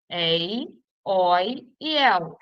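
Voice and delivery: "Ei, oi e el" slowly, each with an open vowel: éi, ói, éu; open diphthongs. Shown as a demonstration. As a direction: sound out éi, ói, éu one by one, vowels wide open. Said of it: "terminadas nos ditongos abertos". ("Ei, oi e el" como ditongos abertos, devagar: éi, ói, éu)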